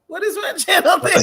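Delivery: giggling through the question; laughing. Real, not acted. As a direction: ask it while cracking up. Laughing while asking.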